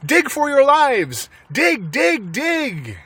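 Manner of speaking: high, loud urgent command; urgent shout. A narrator's reading. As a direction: drive them to dig for their lives. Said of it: "shouted Mister Fox".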